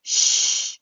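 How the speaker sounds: hushed shh; whispered shh. Acted. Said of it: "whispered the little person".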